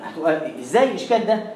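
usual speaking voice

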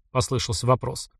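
ordinary delivery

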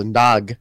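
"Nog" as one closed syllable ending on the G; G in first syllable. Shown as a demonstration. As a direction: say "Nog" with a hard G closing it. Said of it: "you put the G in the first syllable".

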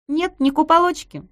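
high, loud playful tease; teasing. Acted. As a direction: tease her with a grin. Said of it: "продолжала дразниться Маша".

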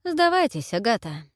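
mocking call to surrender; smirking. A narrator's reading. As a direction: tease her with a smirk. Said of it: "усмехнулся он".

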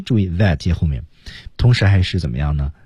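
normal talking voice

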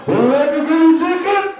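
put-on high, slow, thick accent on "bring chicken"; drive-thru worker with a heavy Spanish accent; Mexican accent. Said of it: "Did you say creepy chicken?".

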